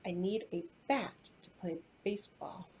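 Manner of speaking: soft hushed aside; whispering. Real, not acted. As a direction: whisper it gently. Whispered example sentence.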